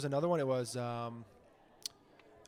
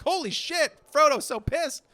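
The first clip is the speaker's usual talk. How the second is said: much higher, louder delighted yell; gleeful paparazzi; 12 semitones higher, 8 dB louder, slower than usual. Retold or imitated. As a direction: cheer at catching him mad.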